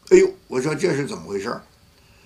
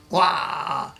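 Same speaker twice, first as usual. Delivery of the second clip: a short higher mock wail; 5 semitones higher than usual. Pastor imitating the wife bursting out crying. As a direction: imitate her bursting into tears. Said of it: "大哭了".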